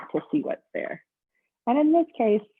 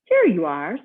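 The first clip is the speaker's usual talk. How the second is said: bellhop voice; 7 dB louder than usual. Acted. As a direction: welcome the guest like a cheerful bellhop. Bellhop opens the room.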